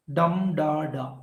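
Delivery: slow "dum da da", beat first on "dum"; stress on dum. Shown as a demonstration. Teacher demonstrating dactyl, stress on first "dum". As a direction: lead with "dum", let "da da" fall away. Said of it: "anapest is quite opposite to the ductile".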